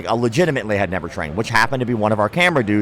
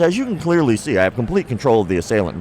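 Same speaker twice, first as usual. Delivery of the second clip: lightly voiced monologue. Instructor addresses the audience mid-demonstration, lightly mocked monologue. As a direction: imitate an instructor lecturing the audience. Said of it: "he starts monologuing towards the audience".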